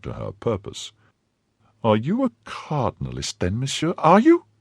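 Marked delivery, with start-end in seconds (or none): 1.8-4.5 wife crying out. A narrator's reading. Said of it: "cried she".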